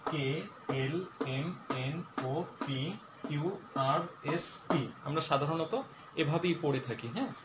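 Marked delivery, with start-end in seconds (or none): 0.1-4.8 letters read softly the usual way, "কে, এল, এম"; common way of reading. Shown as a demonstration. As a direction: read the alphabet as people usually do. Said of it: "আমরা যেভাবে স্বাভাবিকভাবে পড়ি সেভাবে পড়ে শোনাচ্ছি".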